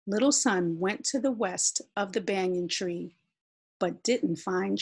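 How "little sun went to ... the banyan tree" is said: ordinary delivery, nothing marked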